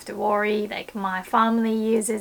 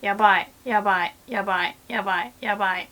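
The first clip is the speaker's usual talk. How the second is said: rapid panicked muttering; 2 semitones lower, much faster than usual. Retold or imitated. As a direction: rattle it off under your breath in a panic. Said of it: "all I could think was".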